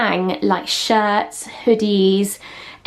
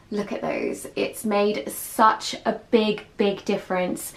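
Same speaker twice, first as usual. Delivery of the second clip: awed whisper; 5 dB quieter than usual. Real, not acted. Admiring the new lights.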